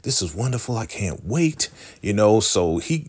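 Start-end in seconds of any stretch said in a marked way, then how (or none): 0.0-1.7 hammed-up delight. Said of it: "he'll play the role".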